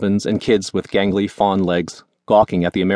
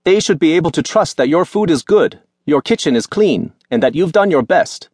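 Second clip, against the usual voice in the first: higher, earnest voice of father; gentle father; 8 semitones higher, 3 dB louder than usual. A narrator's reading. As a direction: pass on a lesson kindly. Father's quoted advice.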